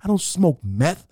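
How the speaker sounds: high-pitched exasperation; acted outraged comeback; indignant protest. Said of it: "I look at her and I go".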